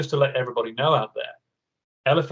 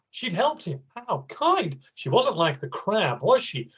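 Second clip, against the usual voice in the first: amazed gasp; 6 semitones higher than usual. Acted. Amazed reader reaction.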